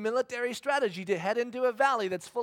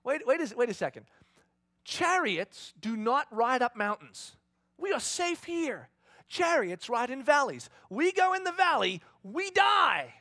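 higher, louder, alarmed pleading; panicked protest; 5 semitones higher, 4 dB louder than usual. Acted. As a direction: hold back in a frightened rush.

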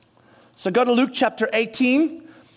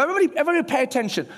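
commanding attention; 4 semitones higher, much faster than usual. Retold or imitated. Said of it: "stop everything and go".

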